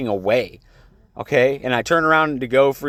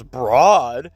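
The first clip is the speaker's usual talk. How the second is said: loud questioning echo of an insult; imitated indignant comeback; mock offended echo; 5 dB louder than usual. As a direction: throw the word back as if affronted. Guard's offended echo, retold.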